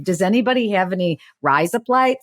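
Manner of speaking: put-on playful Australian accent on "rise up lights"; Crocodile Dundee. Co-host jokes about needing a shave, mock Australian accent. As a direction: ask for razor blades in mock Aussie, amused. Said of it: "I turned into Crocodile Dundee".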